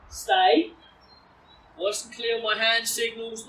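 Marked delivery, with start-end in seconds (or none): 0.1-0.7 firm command. Shown as a demonstration. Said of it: "nice and firm with my command tone".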